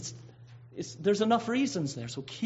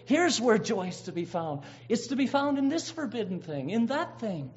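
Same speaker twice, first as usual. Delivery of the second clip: alluring voice; 4 semitones higher than usual. Acted. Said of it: "any voice in the alluring world".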